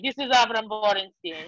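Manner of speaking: put-on dad's Spanish-accented phone introduction. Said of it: "so he has a great accent".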